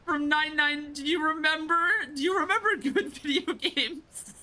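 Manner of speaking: excited. Real, not acted. Fan recognizing old game.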